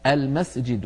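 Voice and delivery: "المسجد" as "al-masjid", deliberate "a" at the start; hamza with fatha. Shown as a demonstration. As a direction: sound out "المسجد" opening with fatha. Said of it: "بل يقولون". (نطق «المسجد» بهمزة مفتوحة)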